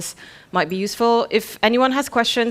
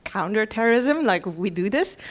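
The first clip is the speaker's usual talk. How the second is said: puzzled reaction. Retold or imitated. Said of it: "And I was like".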